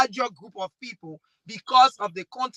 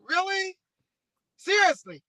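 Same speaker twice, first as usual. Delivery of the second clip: sharp rising incredulous "really?"; acting out her shock at the gossip; incredulous disbelief; 9 semitones higher than usual. To the panel, retelling her shocked incredulous reaction. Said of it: "I was like".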